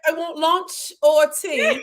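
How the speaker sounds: slow, high laughing line. Real, not acted. Laughing as she insists on lunch.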